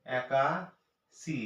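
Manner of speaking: একাশি drawn out very slowly, each syllable held; একাশি, very slowly, for children; stretched out. Shown as a demonstration. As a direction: stretch একাশি long so the কাশি is clear. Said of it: "বাচ্চাদেরকে হাসির মাধ্যমে বোঝান".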